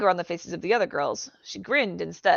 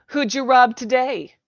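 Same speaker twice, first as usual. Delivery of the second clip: loud, slow taunt, pitched higher; jeering shout; 6 semitones higher, 10 dB louder than usual. A narrator's reading. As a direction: drag out the insult for the room. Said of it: "a boy demanded".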